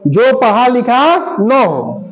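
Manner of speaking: drawn-out teacher's dictation; slow dictation. Shown as a demonstration. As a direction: read it out very slowly for the class. Teacher repeats the dictated phrase.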